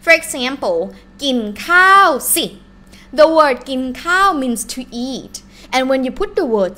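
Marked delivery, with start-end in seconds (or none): 1.2-2.5 quick, louder and higher บอกให้กิน; demanding. Shown as a demonstration. Teacher demonstrating the rude command to eat, demanding. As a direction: fire off กินข้าวสิ as a blunt order. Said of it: "it's more like demanding".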